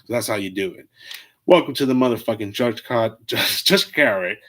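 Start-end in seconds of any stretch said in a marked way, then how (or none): 1.5-4.4 loud, hyped podcast welcome; hyped announcer. Acted. Host hyping his podcast welcome, loud announcer. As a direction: belt the show name like a host.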